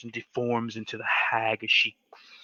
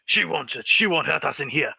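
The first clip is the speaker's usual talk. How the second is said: put-on higher, louder old man reassuring; grandpa voice; 4 semitones higher, 5 dB louder than usual. Grandpa reassuring the family inside the cabin, higher voice. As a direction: tell them they're safe in here. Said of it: "you hear your grandpa".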